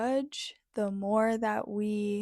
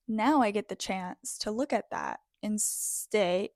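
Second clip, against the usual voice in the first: getting emotional. Real, not acted. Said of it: "wow, I'm getting so emotional".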